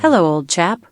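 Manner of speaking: a sample British-accented greeting. Shown as a demonstration. Assistant giving the host accent samples, British accent. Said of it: "British accent".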